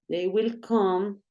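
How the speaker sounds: slow, spelled-out model sentence for students; slow teaching pace; slow dictation pace. Shown as a demonstration. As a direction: say each word slowly for the class to follow. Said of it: "teacher models slow sentence".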